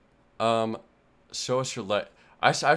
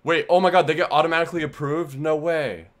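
surprised; 5 semitones higher, 5 dB louder than usual. Real, not acted. Sudden discovery.

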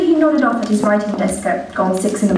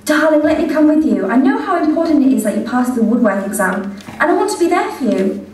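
higher, sing-song mother calling her son; doting mother voice; 5 semitones higher than usual. Acted. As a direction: coo at your grown son like a fond mother. Mother voice in told story.

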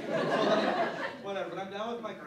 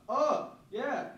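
high, louder mock-polite reply; retold overeager recovery; awkward compliment; 8 semitones higher, 6 dB louder, slower than usual. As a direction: cover the blunder with a pitched-up compliment. Awkward reply to unrecognised friend.

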